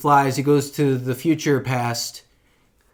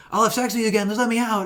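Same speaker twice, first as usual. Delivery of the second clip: high, wheedling imitation; mock pleading; 7 semitones higher, faster than usual. Retelling the villain bargaining with the lady, pleading. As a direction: beg in a pitched-up, half-hearted whine.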